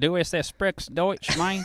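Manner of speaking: German with Tennessee accent. Speaker tries out a bit of German, in a Tennessee accent. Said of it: "That's that Tennessee accent".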